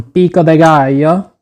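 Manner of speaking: "pico de gallo" in a light put-on Spanish accent; "pico de gallo" in a mild mock Spanish accent, said as a habit. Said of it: "I have to say it with that accent every time".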